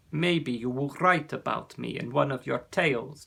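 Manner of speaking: a hint of a big proud dragon; lightly voiced friendly dragon. Ossian says goodbye.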